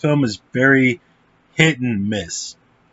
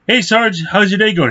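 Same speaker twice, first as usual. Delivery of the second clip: high, chirpy hello to a sergeant; acted-out breezy question; casual cheery greeting; 9 semitones higher than usual. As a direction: pitch it up like friendly small talk.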